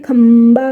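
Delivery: खंबा with a long hummed म before बा; half म drawn out. Shown as a demonstration. Teacher showing the half म in खंबा, drawn out. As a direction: hold the म inside खंबा. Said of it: "म आ गया आधा".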